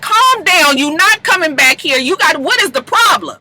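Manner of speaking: mock bouncer. Paris blocking Lyrica.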